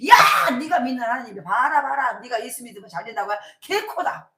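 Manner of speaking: loud scornful jeer at the believer; mocking jeer. Neighbours jeering at the praying farmer, loud and scornful. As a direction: sneer at the farmer's faith, loud. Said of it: "이러고 막 놀려".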